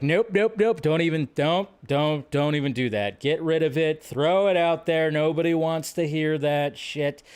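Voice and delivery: insistent mock dismissal; emphatic refusal. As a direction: shut the idea down, acting out your reaction. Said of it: "we both just like".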